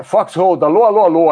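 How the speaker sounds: loud playful hello hello; calling out. Real, not acted. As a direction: call out to get attention. Calling out to a chatter. (chamando alto)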